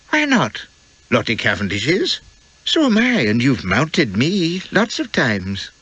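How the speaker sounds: lightly voiced young wife, innocent question; a guileless young wife asking outright; Elspeth's voice. Wife to husband in the dark cabin, lightly innocent.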